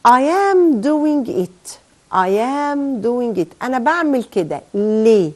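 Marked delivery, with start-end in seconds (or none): 0.1-1.8 I am doing it read slowly and higher, every word stressed; slow emphatic model reading. Shown as a demonstration. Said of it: "طيب،". 2.1-3.5 I am doing it repeated slowly at normal pitch; slow calm repeat. Shown as a demonstration. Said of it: "طيب،".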